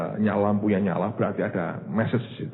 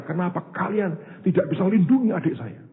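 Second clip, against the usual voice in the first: pitched higher, accusing cry; angry retold outcry; 10 semitones higher than usual. Older brother shouting at friends, accusing outcry. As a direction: throw the question at his brother's friends. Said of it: "Dia marah".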